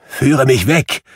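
loud, high begging cry; desperate plea. Acted. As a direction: cry out to be taken away. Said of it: "rief Scrooge aus".

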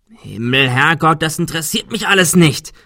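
loud outburst, pitch up; frantic shout at the others. Acted. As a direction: yell it out in exasperation. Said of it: "schrie Adrian".

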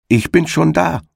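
a high triumphant call across the field. Acted. Hedgehog's wife calling to the hare, high triumphant call. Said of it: "rief ihm die Frau des Igels entgegen".

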